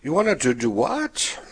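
a lightly voiced shocked mom; mother's disbelief. Mother hearing her son wants seminary, mildly incredulous. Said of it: "But my mother said".

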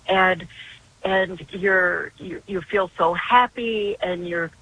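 a touch of bright grandma storytelling; fun and happy sounding. Retold or imitated. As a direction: make confession sound fun for a small boy. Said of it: "I just made it so fun sounding".

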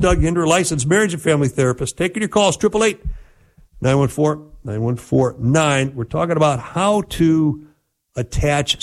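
quick, upbeat announcer read; radio host break. Acted. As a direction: rattle off the show plug and number. Host's station break read.

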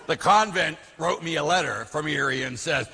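ordinary delivery

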